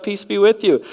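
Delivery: loud, high, sudden greeting bursting into the room. Pretend. Jesus appearing suddenly before excited disciples, loud high greeting. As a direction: announce peace with a startling burst. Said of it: "he's like".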